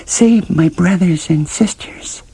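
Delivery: high, slow, pleading talking-cabbage voice; a small vegetable begging not to be left; high drawn-out plea from a cabbage. Acted. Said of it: "it begged".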